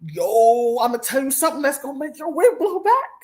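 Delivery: imitating an excited course seller, rising high; hammed-up revelation pitch; mock hype guru. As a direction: sell it in a high, stretched-out mocking voice. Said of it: "next week you're gonna be like".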